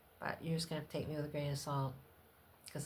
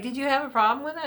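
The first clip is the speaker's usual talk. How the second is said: doctor asking; 10 semitones higher, 10 dB louder, much faster than usual. Retold or imitated. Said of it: "he's like".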